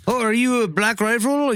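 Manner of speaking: high, bad Canadian accent. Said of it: "I can't do a Canadian accent, but I'll try".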